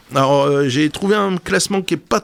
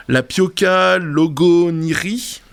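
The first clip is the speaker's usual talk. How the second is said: logoniri drawn out slowly in a mock Japanese accent; slow, hammed-up Japanese accent on the seaweed names; slower than usual. Shown as a demonstration. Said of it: "excusez mon accent japonais aussi".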